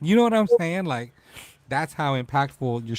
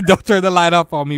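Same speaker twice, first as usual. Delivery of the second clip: louder, higher, laughing through the words; 5 semitones higher, 9 dB louder than usual. Real, not acted. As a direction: laugh it out at your husband's joke. Laughing at husband's teasing.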